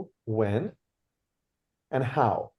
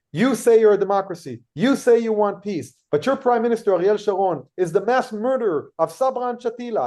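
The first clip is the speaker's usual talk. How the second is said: retold angry accusation; 5 semitones higher, 3 dB louder than usual. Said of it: "he starts yelling at me".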